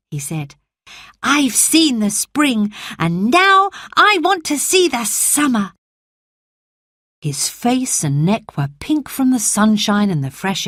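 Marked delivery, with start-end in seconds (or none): 1.2-5.7 put-on a frail boy promising himself he'll live; sickly boy Colin.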